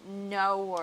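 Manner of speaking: "no" stretched into two syllables, no-wer; drawn-out "no". Shown as a demonstration. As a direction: slide "no" slowly into an Aussie "naur". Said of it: "it's easier if you go".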